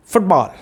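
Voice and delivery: फुटबॉल quick with a short "fut"; short-vowel फुटबॉल. Shown as a demonstration. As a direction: keep the first vowel of फुटबॉल brief. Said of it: "shorter sound पे लेंगे आप".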